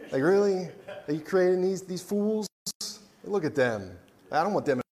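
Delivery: high, whiny, indignant devil; the devil complaining. Acted. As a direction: sneer at humans like a jealous devil. Voicing the devil's jealous complaint.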